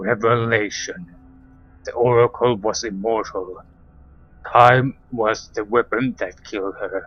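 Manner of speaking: voice sunk very low. Narrating a scene where a crystal speaks after its lights pulse, in a much deeper voice. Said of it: "a much deeper voice emanates from the crystal".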